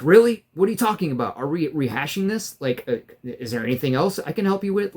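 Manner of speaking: condescending mimicry. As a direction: sneer it back at him, mimicking. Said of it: "it was so condescending".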